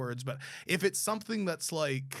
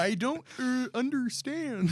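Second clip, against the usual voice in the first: a hint of French accent, laughing; lightly voiced French accent; 8 semitones higher, slower than usual. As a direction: try a French voice and crack up. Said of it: "what does a French person sound like?".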